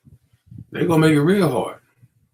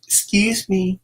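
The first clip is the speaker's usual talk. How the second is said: mock prim voice; 5 semitones higher, much slower than usual. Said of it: "It's gonna be".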